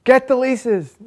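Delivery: high, loud shouted command; retold scream. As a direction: shout it out like an urgent order. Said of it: "And he screams".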